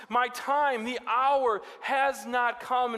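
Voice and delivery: high, loud and slow; solemn Jesus. Retold or imitated. Jesus refusing crowds, slow solemn. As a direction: hold them back, solemnly. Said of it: "his response is".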